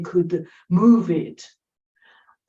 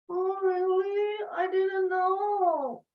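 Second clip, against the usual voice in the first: put-on higher, softer childlike amazement; a daughter hearing that the old man saved her mother's life; little girl surprised; 9 semitones higher, 6 dB quieter, slower than usual. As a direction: play the daughter realizing she never knew. Child voiced in story.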